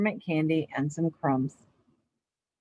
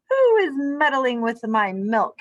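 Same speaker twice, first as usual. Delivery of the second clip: shouted; 4 semitones higher, 4 dB louder, slower than usual. Acted. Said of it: "he shouted".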